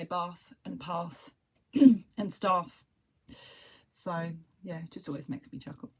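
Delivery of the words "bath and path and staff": "bath", "path", "staff" with long "ah"; southern pronunciation. Shown as a demonstration. Showing how people down south talk, southern pronunciation. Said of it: "obviously we say".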